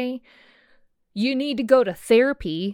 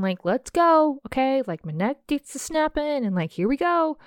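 fired up; 4 semitones higher than usual. Real, not acted. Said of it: "I get fired up".

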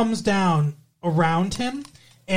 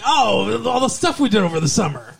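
excited recap; 4 semitones higher than usual. Retold or imitated. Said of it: "it's like".

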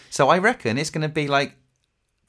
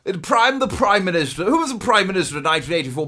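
Thatcher impression; 2 semitones higher than usual. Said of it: "This is what she sounded like".

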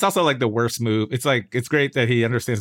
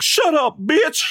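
squeaky high mock shout; mock yelling preacher; 14 semitones higher, much slower than usual. Imitating the preacher shouting at a caller. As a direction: snap it like an unhinged host. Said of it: "he'll be like".

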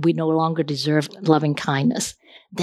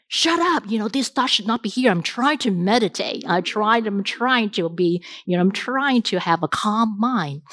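irritated self-scolding. Retold or imitated. Meditator snapping at her own wandering thoughts, mildly exasperated. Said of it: "habituated to telling ourselves".

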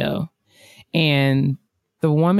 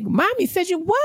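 high, incredulous coaxing; mock disbelief; 13 semitones higher than usual. Questioning the little girl with high mock surprise. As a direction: sound shocked for the kid's sake.

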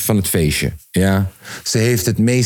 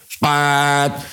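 higher, drawn-out sound effect; imitated noise; 5 semitones higher than usual. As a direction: hold the noise on one high pitch.

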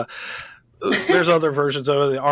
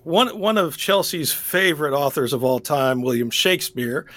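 sarcastic. Real, not acted. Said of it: "I say that in the most sarcastic way possible".

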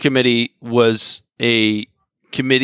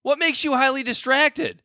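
high-pitched, incredulous mock questioning; mock interrogation; 10 semitones higher than usual. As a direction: grill an absent official in disbelief, voice pitched way up. Mock-grilling the quoted official.

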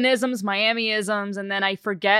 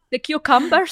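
louder mock foreign-sounding cucumbers, cucumbers rising; imitating Hilaria Baldwin; 6 semitones higher, 5 dB louder than usual. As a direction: say cucumbers like a fake Spanish speaker. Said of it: "that's actually spot on".

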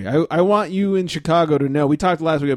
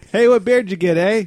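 put-on Chicago accent; 6 semitones higher than usual. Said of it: "Chicago guys skit".

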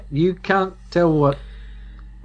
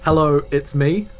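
confident hello. Shown as a demonstration. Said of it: "one that's more confident".

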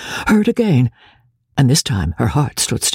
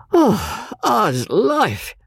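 higher, sighing foppish exclamation; affected sigh; 6 semitones higher, much slower than usual. A narrator's reading. Exhausted fop being untied.

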